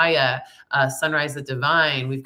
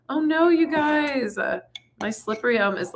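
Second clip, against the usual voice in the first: playful dismay; 11 semitones higher than usual. Real, not acted. Telling viewers her slippery elm is chunky, high playful dismay. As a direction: wail it high and stretched, half-playful.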